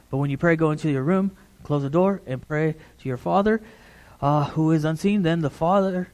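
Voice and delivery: hurried, casual run through the verse; rushed scripture reading. Shown as a demonstration. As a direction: rattle off the reading to get it done. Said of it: "we're reading the Scripture like this".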